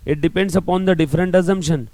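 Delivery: slow dictation. Shown as a demonstration. Teacher reading the textbook definition aloud for notes, slow. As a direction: read out slowly for notes.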